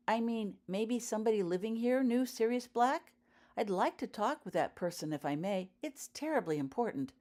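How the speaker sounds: lightly voiced polite young girl; a hint of an eager girl asking. A narrator's reading. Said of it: "She sounded amazingly like Lily".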